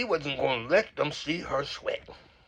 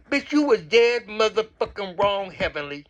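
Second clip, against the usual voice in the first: high, loud, slowed condemnation; emphatic scolding; 5 semitones higher, 4 dB louder than usual. Real, not acted. Vlogger telling a castmate off, scolding. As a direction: hammer it out at a raised pitch. Telling Heavenly she was wrong.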